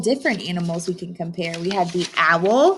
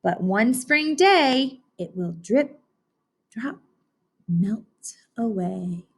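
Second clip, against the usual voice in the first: wise owl; slower than usual. Acted. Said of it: "she said wisely".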